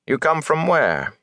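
high, slow, deliberate demand; cold questioning. A narrator's reading. Bornhold demanding Rand's origin, cold and deliberate. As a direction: press the stranger slowly and coolly. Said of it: "he said coldly to Rand".

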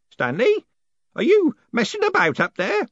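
high, carrying call upward. Acted. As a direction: shout up into the dark attic.

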